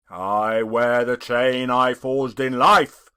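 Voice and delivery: a dead man's warning, intoned; solemn ghost. Acted. The ghost speaks.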